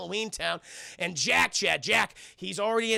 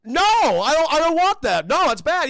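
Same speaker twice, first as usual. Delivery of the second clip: high, very loud Santa objection; shouted mock pleading; alarmed protest; 8 semitones higher, 10 dB louder than usual. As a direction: protest frantically, at full voice.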